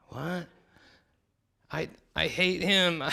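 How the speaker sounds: outraged villain. Acted. Preacher voicing Haman's disgust at honoring Mordecai, high sneering voice. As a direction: play Haman appalled at honoring his enemy.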